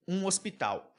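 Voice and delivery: pronúncia portuguesa, H mudo; um hospital em português. Shown as a demonstration. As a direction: diga "Um hospital" com H mudo. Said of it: "Qual que é a diferença? É o som". (hospital em português)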